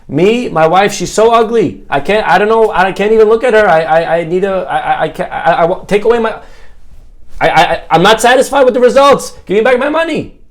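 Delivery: high, stammering, desperate; flustered complaint. Acted. Cured blind husband begs the doctor for his money, flustered. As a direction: sputter and trip over your words.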